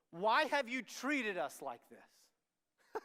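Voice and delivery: drawn-out slow parental reproach; loud, slow reproach. Acted. Preacher voicing angry parents.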